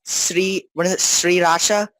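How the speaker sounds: Sriracha with a drawn-out "Sri"; pronunciation demo. Shown as a demonstration. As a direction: try out Sriracha as "Sri-racha", tentatively. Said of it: "like, very separated".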